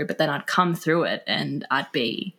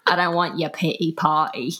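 lightly put-on British accent; mock British accent, retelling a drunken line. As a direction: imitate a tipsy Brit refusing sympathy. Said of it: "in that accent".

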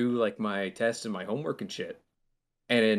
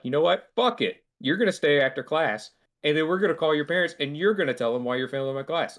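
mock angry teacher outburst; 2 semitones higher than usual. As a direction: tell the kid off, fed up. Teacher snaps at student.

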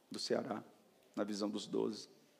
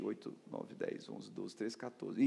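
hushed count; 7 dB quieter, slower than usual. Real, not acted. Counting years softly.

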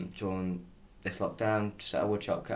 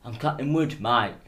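mocking impression; 3 semitones higher, 6 dB louder than usual. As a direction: lightly imitate a careless boss brushing it off. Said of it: "you're just like this".

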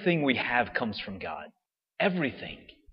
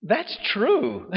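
laughing agreement; 10 semitones higher than usual. Retold or imitated. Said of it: "And I remember going".

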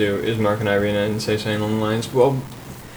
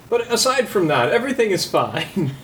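sarcasm; 6 semitones higher than usual. Acted. Sarcastic reassurance.

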